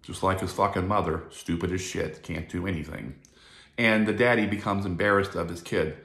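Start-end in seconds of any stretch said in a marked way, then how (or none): 0.0-3.1 low muttered put-down, trailing softer; lightly voiced disappointed father; disparaging dad. Daddy talking about the son who does bad, a hint of disparaging dad. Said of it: "daddies say shit like this".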